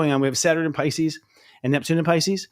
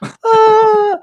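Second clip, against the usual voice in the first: sudden high shout of overwhelmed emotion; overwhelmed cry; 10 dB louder than usual. Retold or imitated. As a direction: let out a loud high burst of shock. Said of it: "I started crying".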